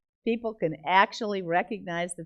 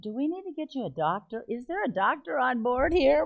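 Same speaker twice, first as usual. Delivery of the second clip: higher, hurried worried questions; mock concern; 6 semitones higher than usual. Passengers across the aisle to crying woman, mock concern. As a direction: imitate an anxious bystander calling for help.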